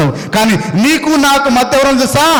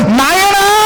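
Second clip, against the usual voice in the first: fatherly call; 7 semitones higher, much slower than usual. Shown as a demonstration. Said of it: "అట్టగా చదివేది విధానం అది కాదు".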